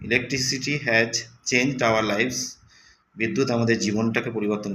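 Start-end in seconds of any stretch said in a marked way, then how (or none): 0.1-2.4 slow, deliberate sentence; slow reading aloud. Shown as a demonstration. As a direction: read it word by word. Teacher reading example. (ধীরে পড়া)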